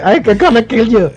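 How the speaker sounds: drawn-out comic threat in garbled English; ventriloquist dummy imitation. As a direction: imitate a puppet's threat, slowly. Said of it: "Como el loco este".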